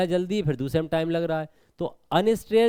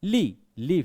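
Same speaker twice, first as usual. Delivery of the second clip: ली short and light; quick unstressed reading; much slower than usual. Shown as a demonstration. Teacher showing the unstressed syllable, ली said quickly. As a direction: say ली quickly, without force. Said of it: "तो ली जल्दी होगा".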